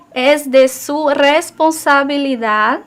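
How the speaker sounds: two strong syllables in "responsabilidad", the first and the last; double stress. Shown as a demonstration. Teacher showing a secondary accent to students, double stress on "responsabilidad". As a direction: stress both "res" and "dad" in "responsabilidad". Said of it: "Tenemos dos sílabas fuertes ahí, res y dad".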